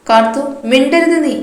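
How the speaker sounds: a mother silencing her daughter, loud and angry. Acted. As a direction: shut her down hard. Mother forbids daughter's choice.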